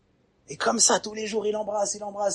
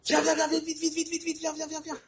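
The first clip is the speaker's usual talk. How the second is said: excited call; 12 semitones higher, 4 dB quieter than usual. Acted. Parent calling child to see.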